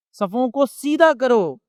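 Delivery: drawn-out solemn order; slow emphatic command. Retold or imitated. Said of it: "تو کہتے کہ". (آہستہ اور زور دے کر حکم)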